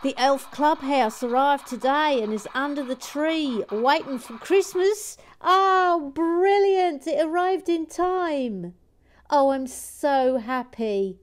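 high, loud, gleeful elf. Acted. Elf tells Michael the clubhouse arrived, high and loud. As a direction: chirp it out way up high, thrilled.

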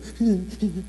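mock sobbing sniffles; short demonstrated sob; imitated crying. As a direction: act out a child's hitching sobs. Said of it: "like a battered child crying".

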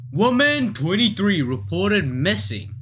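lightly put-on news reporter. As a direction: read it like a news anchor. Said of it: "let me get my reporter voice out".

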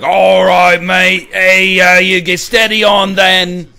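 Australian accent, hammed up and loud. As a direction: shout it like a loud Aussie bloke in Australian. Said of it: "Australian's a weird accent".

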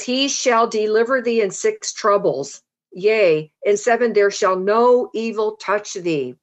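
declaimed verse with falling phrase ends; scripture reading. A narrator's reading. Preacher reads Job five to the congregation, scripture reading. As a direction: proclaim it phrase by phrase, measured.

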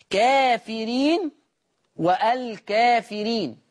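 كافرين and والكافرين slow, the a after k leaned toward e; taqlil reading demo. Shown as a demonstration. Teacher demonstrates Warsh's reading of كافرين, slow. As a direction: draw out كافرين slowly with the alif slightly tilted. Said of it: "قرأ ورش بتقليل الألف".

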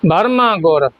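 ਬਰਮਾ ਗੁਰ falling to a complete rest; ਬਰਮਾ ਗੁਰ closed off as a finished phrase; full stop after. Shown as a demonstration. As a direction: come to a full pause on ਗੁਰ. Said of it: "ਇੱਥੇ ਪੂਰਾ ਵਿਸ਼ਰਾਮ ਹੈ".

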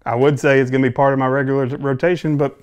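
talking around pipe stem; pipe in mouth. Real, not acted. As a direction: lips clamped on stem. Seen 3: Pipe held to lips, stem in mouth while speaking from 0.6s.

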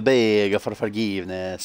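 drawn-out mock Dracula accent; slow vampire-style accent; Count Dracula accent. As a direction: imitate a hammed-up Dracula accent. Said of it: "Sounds like Count Dracula".

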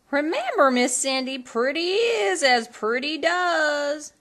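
wag a finger kindly; fairy godmother cautioning Cindy; godmother's warning. A narrator's reading.

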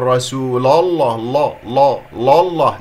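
رسول الله with the final l of رسول darkened to lo; wrong heavy lam. Shown as a demonstration. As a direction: thicken every l into a rounded law. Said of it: "ولا أفخم اللام من كلمة رسول".

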